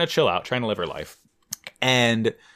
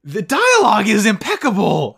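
sarcastic praise; 9 semitones higher, 6 dB louder than usual. Real, not acted. Mocking the show's writing.

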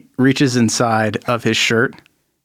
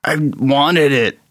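dying confession; 3 semitones higher, slower than usual. Acted. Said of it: "he's like".

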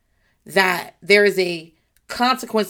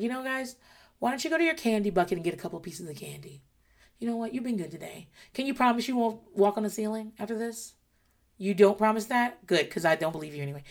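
casual parental coaxing; 6 dB quieter than usual. Acted. Voicing herself coaxing the kids.

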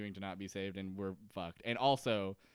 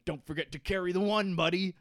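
louder, higher taunting jab; mock Sawyer shout; 6 semitones higher, 6 dB louder than usual. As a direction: needle him like a smug castaway. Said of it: "Sawyer shouts at him".

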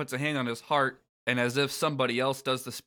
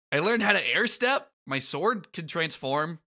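pitched-up hero voice; Sora; 5 semitones higher than usual. Acted. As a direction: lift the voice like an eager hero. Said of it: "Sora says".

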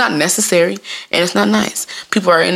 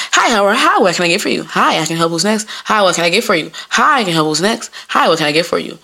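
mild counter yell. Acted. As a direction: call out to the next customer in line. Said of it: "so I have to keep yelling".

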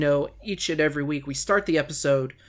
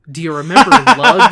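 excited; 3 semitones higher, 13 dB louder than usual. Real, not acted. Excited callback to old boots.

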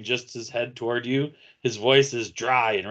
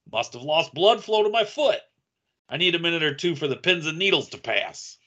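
Gomer Pyle voice; 4 semitones higher than usual. Acted. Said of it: "Make us Gomer Pyle".

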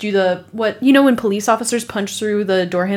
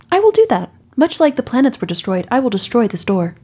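lightly hammed-up grand declaration; pompous promise to smash the door; mock heroic vow; 3 semitones higher than usual. Sergei answering the order, in a hammed-up heroic voice. Character vows to destroy door.

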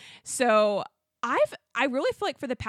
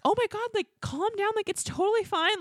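higher-pitched, lightly voiced husband calming someone; imitated reassurance; 11 semitones higher than usual. Husband telling his sobbing wife to calm down, imitated reassurance. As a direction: soothe in a raised imitation voice.

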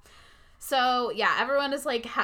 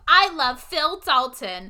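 drawn-out, mildly raised mock yell; mock scream, held back; retold dare scream; 3 semitones higher, 4 dB louder, slower than usual. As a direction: blurt a dare out slowly, half-yelled. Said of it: "dare her to scream".

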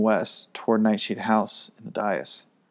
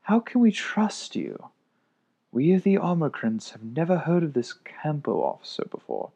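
suspicious challenge; 6 semitones higher than usual. Acted. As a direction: challenge the stranger's trust. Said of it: "Hugo started".

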